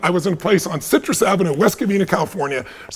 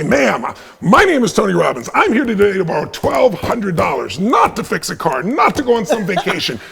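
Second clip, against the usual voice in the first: slow, pumped-up pitch to a bank teller; hyped-up energy; 3 semitones higher than usual. Retold or imitated. Young man pitching a bank lady for a loan, hyped up. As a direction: sell it with eager, slightly slow intensity. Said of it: "in my hyped-up energy like this".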